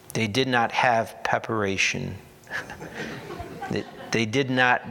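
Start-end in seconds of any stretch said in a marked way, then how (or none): 2.5-3.6 a quick breathy laugh at his own joke; short amused chuckle; soft chuckle. Real, not acted. Joke about preparation ointment. 3.7-4.9 words spoken through a chuckle; amused, half-laughing restart. Real, not acted. Laughing after his own joke.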